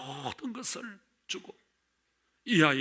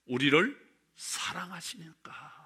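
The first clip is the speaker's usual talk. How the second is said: slow, softer whisper; 3 dB quieter than usual. Real, not acted. Preacher whispering why God remembers us, slowly. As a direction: let the reason fall to a whisper. Tender close of a point.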